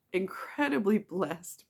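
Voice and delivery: slow, fighting back tears on blessed; getting emotional, words slowing; choked up. Real, not acted. Thanking friends for donations, slow and choked up. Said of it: "I'm not gonna get emotional".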